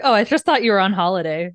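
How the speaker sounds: mock cheerful obliviousness; oblivious. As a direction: toss it off, clueless and brisk. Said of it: "Just, like, oblivious".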